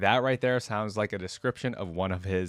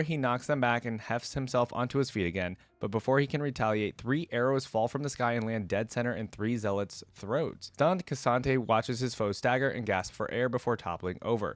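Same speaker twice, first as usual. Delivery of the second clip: steady storybook reading voice; story narration. A narrator's reading. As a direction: narrate the battle evenly.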